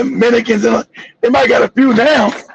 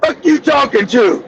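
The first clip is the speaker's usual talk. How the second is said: indignant retort; 3 semitones higher, slower than usual. Retold or imitated. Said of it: "I was like".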